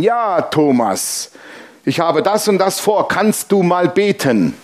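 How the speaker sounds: drawn-out, wheedling phone request; imitated caller. Caller asks Thomas to pray, imitated drawn-out pleading. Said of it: "Dann klingelt mein Telefon".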